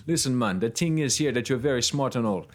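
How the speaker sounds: lightly put-on Jamaican accent; a playful hint of Jamaican accent; Monokuma with Jamaican accent. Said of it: "why is Monokuma Ju-, Jamaican now".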